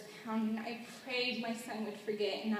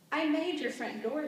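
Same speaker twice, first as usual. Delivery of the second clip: smiling; 3 semitones higher than usual. Acted. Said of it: "he smiled".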